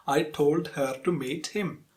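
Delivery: every word of "I told her to meet him" equally weighted; syllable-timed rhythm. Shown as a demonstration. Teacher contrasts Indian English rhythm, syllable-timed. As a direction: give "her", "to" and "him" full, even beats. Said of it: "With syllable timed rhythm".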